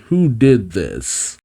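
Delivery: slow, puzzled question. Acted. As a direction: ask it slowly, wondering. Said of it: "in a questioning way".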